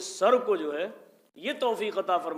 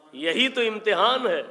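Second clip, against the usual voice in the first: یہی تو امتحان ہے raised high and loud; louder emphasis; 4 semitones higher, 4 dB louder than usual. Shown as a demonstration. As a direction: press the تو, higher and louder. Repeated louder.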